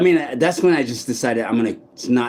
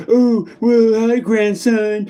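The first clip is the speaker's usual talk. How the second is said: higher, slow, sugary put-on granny greeting; fake grandma voice; 9 semitones higher, 4 dB louder, slower than usual. Voices posing as his grandma, greeting him in a higher, slow granny voice. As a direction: coo it like a sweet old grandmother, drawn out. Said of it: "she'll be like".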